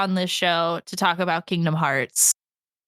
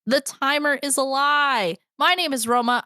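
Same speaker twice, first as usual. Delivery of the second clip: upbeat podcast host intro; lively show-opening delivery; 5 semitones higher than usual. Acted. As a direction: welcome listeners with a big, high hello. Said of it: "podcast voice down".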